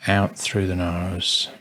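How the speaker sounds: spacious, calm guidance, long silences between phrases; guided meditation. Acted. Meditation teacher guiding listeners to observe thoughts, calm and spacious. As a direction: let each instruction settle before the next.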